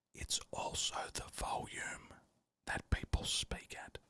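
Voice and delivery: quiet, unvoiced whisper.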